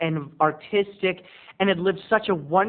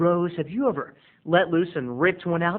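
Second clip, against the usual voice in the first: ordinary talk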